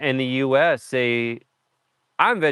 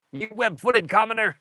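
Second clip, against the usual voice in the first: high haughty villain voice; evil queen; 8 semitones higher than usual. Retold or imitated. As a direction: sneer it like a snooty queen. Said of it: "Gabby's been quoting hoppers all day".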